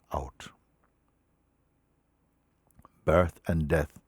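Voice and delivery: measured, emphatic recital, phrase by phrase; solemn reading. Acted. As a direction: recite it with weight on the key words. Reads a teacher's words aloud.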